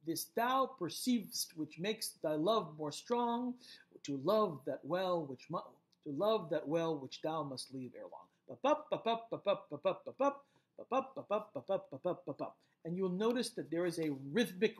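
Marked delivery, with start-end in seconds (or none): 0.0-8.3 measured verse recital with weighted stresses; poem reading. Acted. Teacher reciting Shakespeare to a class, measured verse reading. Reads Shakespeare sonnet aloud. 8.5-12.5 ba-BUP ba-BUP, light first, punched second; iambic beat. Shown as a demonstration. Teacher tapping out Shakespeare's rhythm, iambic beat. Beats out the meter aloud.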